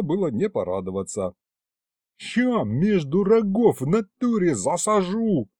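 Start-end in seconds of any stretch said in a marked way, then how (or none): 2.2-5.5 high, slow gangster yell of a demon; lathered-up yelling. Acted. Aristofan yelling a threat at the storekeeper. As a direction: bellow the threat across the hall. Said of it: "орал взмыленный Аристофан".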